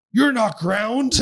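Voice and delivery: high, loud, slow mock mascot line. Imitating the coffee-mug mascot to a co-host, high and hammed-up. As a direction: draw it out like a goofy costumed mascot. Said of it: "And then it's just like".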